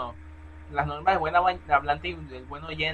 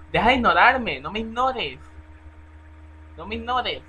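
súplica a gritos; 6 semitones higher, 11 dB louder than usual. Real, not acted. Suplicando que no lo ignoren.

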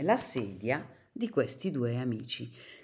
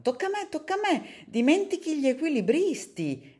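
high, fast, eager cry of tocca a me; eager shout; 13 semitones higher, 4 dB louder than usual. Acted. Bruscolo climbing the chair, shouting eagerly to his friend. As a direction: squeal to grab the turn. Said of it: "gridò montando sulla sedia".

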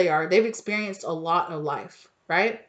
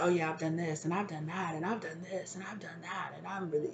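mock braggart; 11 dB quieter than usual. Mocking a braggart listing feats.

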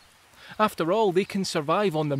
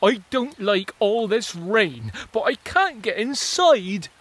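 lightly voiced grumbling springtail; 5 semitones higher, 7 dB louder than usual. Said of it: "the springtails are arguing".

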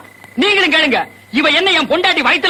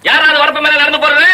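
calling out; 3 dB louder than usual. Acted. Calls to man across field.

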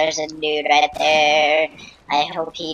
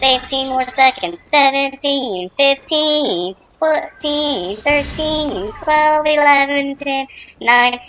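rising high excited countdown; 6 semitones higher than usual. Real, not acted. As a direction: count down the last seconds eagerly. Counting down final seconds.

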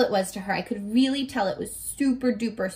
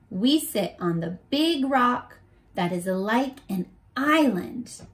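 put-on reading to children. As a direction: paint the picture gently for listening kids. Reading while eyes closed.

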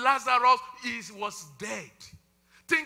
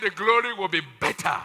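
louder, firm restatement; emphatic call; loud correction; 6 dB louder than usual. Shown as a demonstration. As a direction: say it out to the crowd. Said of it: "I said".

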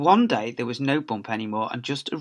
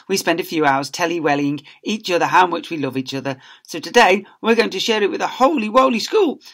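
high, louder sugary voices; gushing teachers; 5 semitones higher, 5 dB louder than usual. Acted. Family addressing the school, high sugary voices. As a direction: preach love sweetly.

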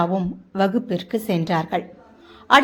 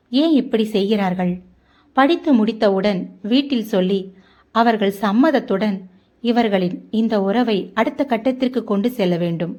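plain reading voice

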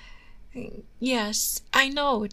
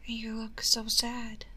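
slow, hushed whisper; soft whisper; 5 dB quieter, slower than usual. Acted. To a sad lover, a slow soft whisper. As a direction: whisper it slowly, close and gentle.

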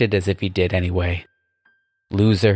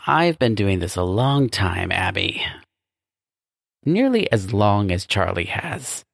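boastful demon boss. Acted. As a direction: lecture with proud menace. Scrudius boasts to his nephew.

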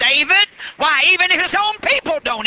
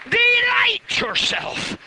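shouted; 10 semitones higher, slower than usual. Shown as a demonstration. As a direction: cry the words out to the church, slowly. Preacher repeats the verse, shouted.

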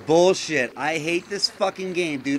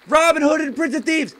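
shouting the title at the game, higher and quicker; loud, fast repeat; 7 semitones higher, 6 dB louder, faster than usual. Real, not acted. Player yelling the puzzle answer at the voice control, loud and rushed. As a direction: bark the answer louder so the game hears it.

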